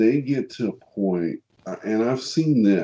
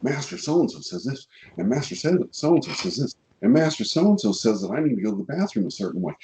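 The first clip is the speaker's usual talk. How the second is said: higher, whiny mock student parroting his master; 4 semitones higher, faster than usual. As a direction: ridicule a student who can't think alone. Mocking a dependent student.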